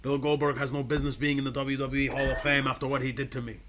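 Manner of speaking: lightly voiced aggrieved wrestler; Bret Hart. Objecting to Goldberg's Hall of Fame place, wrestler impersonation. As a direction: grumble like a wronged wrestler. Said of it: "my Bret Hart ac-, uh, co-, impersonation".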